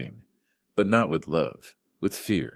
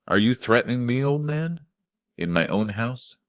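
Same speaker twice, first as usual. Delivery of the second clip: higher, incredulous scorn; mocking challenge; 7 semitones higher than usual. A narrator's reading. Son-in-law scorning the father-in-law at his house, high and mocking. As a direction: sneer down at the old man.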